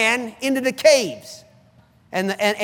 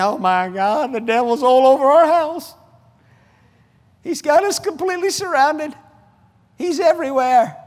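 hammed-up wail of someone under siege; mock panic; 3 semitones higher than usual. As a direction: play the alarm for mockery. Mimics panicked, defeated believers.

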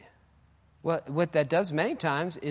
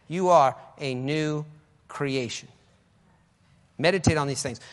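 ordinary talk

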